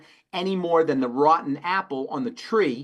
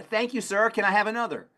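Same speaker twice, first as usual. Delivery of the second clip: 1 mock grateful patient; 6 semitones higher than usual. Mock patient begging for more.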